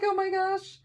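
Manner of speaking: very high, squeaky excitement; thrilled gasping. Retold or imitated. Retelling why she saved it till last, thrilled squeal.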